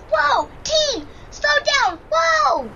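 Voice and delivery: rising alarm, calling to the team; startled cries of whoa; alarmed shouting. Acted. Dog team sliding on ice.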